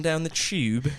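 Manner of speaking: put-on playful London accent, "Tube" drawn out; London pronunciation. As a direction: stretch "Tube" as a Londoner would, "chube". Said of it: "didn't wanna pull one of those".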